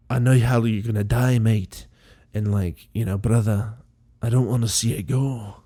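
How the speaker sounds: light mock Scottish accent, loosely held; a hint of a Scottish accent while retelling a TV scene; imitating a Scottish accent. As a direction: play Desmond in a casual Scottish voice. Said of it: "he's fucking Scottish as fuck".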